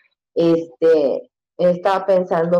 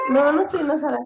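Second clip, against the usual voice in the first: higher-pitched, gentle retold answer; imitated reassuring mother; 8 semitones higher, faster than usual. Mother answering her worried son, lightly reassuring. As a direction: reassure a child in a lifted voice.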